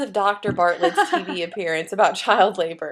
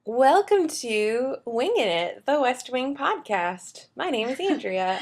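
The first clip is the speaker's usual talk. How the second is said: TV host voice; 4 semitones higher than usual. Acted. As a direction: announce it like a TV presenter. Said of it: "that sounded really, like, official".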